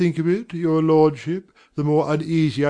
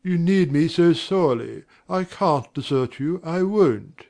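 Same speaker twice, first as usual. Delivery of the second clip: welling affection. Acted. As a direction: offer yourself out of devotion. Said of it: "affection for these great ones wells up".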